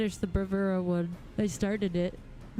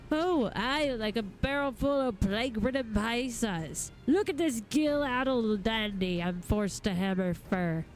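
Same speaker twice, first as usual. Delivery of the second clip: lightly voiced smith, full of sarcastic complaint; a hint of sneering irritation; cranky smith. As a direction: grumble like a salty working craftsman. Reads a grumpy smith's dialogue.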